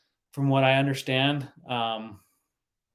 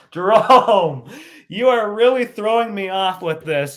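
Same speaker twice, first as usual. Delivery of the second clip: excited exclaim; 6 semitones higher, 9 dB louder than usual. Real, not acted. Teasing friend, laughing disbelief.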